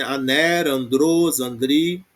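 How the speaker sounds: Aner, andros, andri, each stressed on its final syllable; stress on last syllable. Shown as a demonstration. Teacher showing where the accent falls, final-syllable stress on Aner, andros, andri. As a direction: put the weight on the endings of Aner, andros, andri. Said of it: "o acento tá na última".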